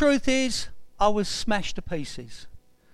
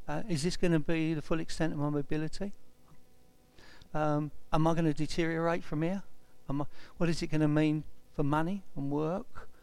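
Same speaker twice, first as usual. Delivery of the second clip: lower, subdued self-questioning; pondering; 3 semitones lower, 5 dB quieter than usual. Retold or imitated. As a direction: think aloud to yourself, retelling private worries. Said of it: "And I started pondering".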